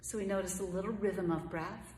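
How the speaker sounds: calm, unhurried meditation voice with long pauses; guided meditation. Acted. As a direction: gently guide them through each breath, leaving room between phrases.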